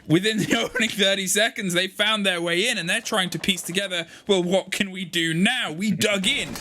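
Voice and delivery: rising, energetic caster call over the action; live play-by-play. Acted. Co-caster calling the round live for the audience, energetic play-by-play. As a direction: ride the action like a live shoutcaster.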